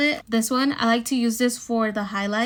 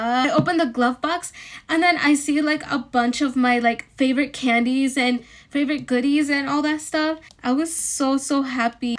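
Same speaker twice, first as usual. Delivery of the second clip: happily worked-up retelling; excited; 3 semitones higher, 4 dB louder than usual. Real, not acted. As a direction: gush a little, slightly louder. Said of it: "I had to calm down".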